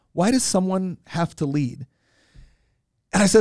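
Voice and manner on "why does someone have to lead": retold plainly, slow and unchallenging; simple question. Woman on the plane asking about leadership, simple mild curiosity. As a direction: lightly imitate a slow, open question. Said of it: "she's asked a simple question".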